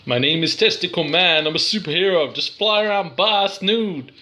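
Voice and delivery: lightly voiced superhero introducing himself; Testicle Man. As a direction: announce yourself as a silly superhero, pitch lifting at the end. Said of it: "This looks like a superhero".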